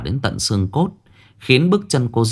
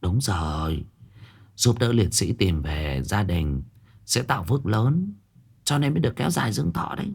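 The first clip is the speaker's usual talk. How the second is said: a hint of a grave old seer delivering bad news quietly; old fortune-teller, hushed; 5 dB quieter than usual. Fortune-teller telling Hiền she has three months, hushed and softer. Old woman confirms merit.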